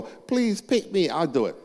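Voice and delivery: high-pitched imitation of keen kids; eager kids. Kids volunteering for farm work, eager mock plea. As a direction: act out kids begging to be picked, voice shooting up. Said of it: "the kids will go".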